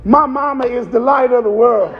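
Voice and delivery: put-on proud little boy. Little boy reciting his Easter speech, proud and sure. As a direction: blurt it out proudly like a child. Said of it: "Little boy said".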